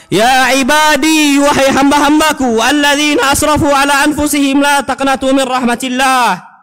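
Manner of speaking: preacher reciting the verse to the congregation; Quran recitation. Acted. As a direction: intone the Arabic like scripture.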